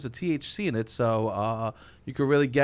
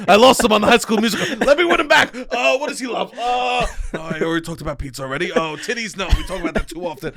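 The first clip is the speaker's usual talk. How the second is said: mocking Robbie; 5 semitones higher, 4 dB louder than usual. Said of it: "Robbie goes".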